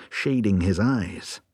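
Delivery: ordinary delivery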